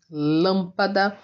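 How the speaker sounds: "lâmpada" slowly, first LÂM stretched; teacher's example word "lâmpada", clearly stressed. Shown as a demonstration. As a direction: lean on the first syllable of "lâmpada". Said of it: "Exemplos aí de proparoxítonas".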